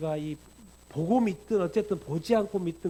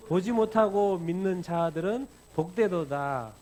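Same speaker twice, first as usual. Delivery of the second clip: slow, louder solemn pronouncement; stately proclamation; Jesus's blessing; 5 dB louder, slower than usual. Acted. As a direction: declare the blessing slowly and firmly. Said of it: "뭐라 그래요?".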